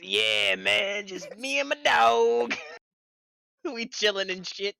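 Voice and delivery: drawn-out lazy voice; lazy, slow mock chill guy; slow mocking impression. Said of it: "That nigga's".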